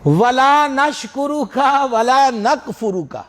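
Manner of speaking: mock careless recitation; wrong recitation. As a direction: imitate the youngsters' mistaken recital. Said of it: "اب وہ سنا رہے ہیں دعائے قنوت".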